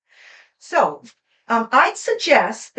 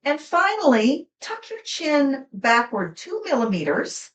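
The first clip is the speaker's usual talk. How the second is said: gentle guided instruction. Acted. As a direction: lead them gently into posture. Guides a posture exercise.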